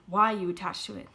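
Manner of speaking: frightened whisper. Retold or imitated. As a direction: barely voice the question. Questioning the spirit, frightened.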